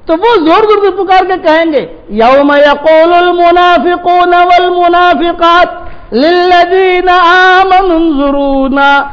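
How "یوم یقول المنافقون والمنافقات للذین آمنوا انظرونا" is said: slow, drawn-out tilawat with a raised pitch; Quranic recitation. Acted. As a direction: intone the verse slowly like tilawat. Quran verse recited in sermon. (آہستہ، کھینچ کر قرآنی تلاوت)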